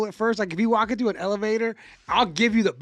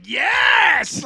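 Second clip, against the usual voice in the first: hammed-up drawn-out shout, pitched way up; over-eager; 11 semitones higher, 8 dB louder than usual. Stranger too keen on small talk, mock ecstatic shout. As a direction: cheer as if thrilled by the invitation. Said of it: "I wanted you to be bummed".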